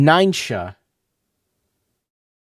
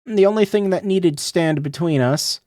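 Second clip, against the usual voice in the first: put-on young girl character. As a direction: speak as the longing girl remembering him.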